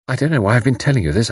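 quick, sudden remark; abrupt. Acted. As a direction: break in briskly and abruptly. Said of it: "Sheila said abruptly".

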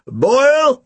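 high-pitched, contained shout. A narrator's reading. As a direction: shout the name to summon him. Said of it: "Snape shouted".

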